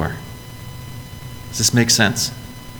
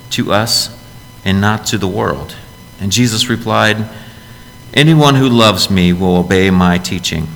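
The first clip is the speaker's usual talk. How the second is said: measured, solemn Bible reading; unhurried reading of Scripture to the congregation. Acted. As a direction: read the passage like it's sacred. Reads the scripture passage aloud.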